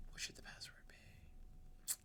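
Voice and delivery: a breathless whisper, musing under his breath; whispered to himself. Real, not acted. Lecturer on Twitch whispering while he picks a password. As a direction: whisper the question as if only to yourself. Wondering aloud what password to use.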